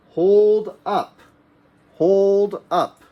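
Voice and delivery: high, loud "hold up"; emphatic command. Shown as a demonstration. Teacher telling pupils to hold up cards, high and loud. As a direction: call it out to the class. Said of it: "high emphatic command".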